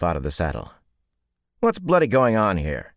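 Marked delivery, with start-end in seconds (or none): 1.6-2.9 loud, high demand; loud indignant demand. A narrator's reading. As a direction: stride in and demand answers. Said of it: "he demanded".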